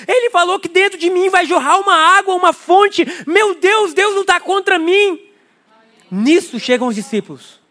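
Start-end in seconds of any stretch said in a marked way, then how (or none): 0.0-5.2 excited woman. Retold or imitated. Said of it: "ela fala".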